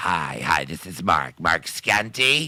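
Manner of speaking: put-on prank-caller voice, low, slow, swooping. Retelling prank phone calls using a fake name: prank call voice as mark scanty. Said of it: "saying it in that way".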